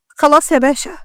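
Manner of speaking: pleading cry from the floor; begging thief. Acted. Beaten thief on the ground begs Ahmed Pasha, pleading. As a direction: beg for mercy, voice reaching up.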